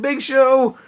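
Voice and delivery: over-the-top trash talk; mock wrestler threat. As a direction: drag out the threat like a promo. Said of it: "and he's like".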